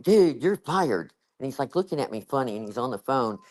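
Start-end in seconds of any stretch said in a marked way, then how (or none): 0.0-1.1 slow mock firing. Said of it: "I'm like".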